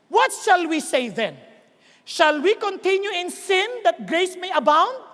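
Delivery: slow, measured rhetorical questioning; emphatic scripture reading. Acted. Preacher reads Paul's question to congregation, deliberate. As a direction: read the verse out slowly, phrase by phrase.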